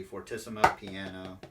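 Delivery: "fortissimo piano" run together quickly, with no middle step; immediate dynamic change. Shown as a demonstration. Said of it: "it should just be".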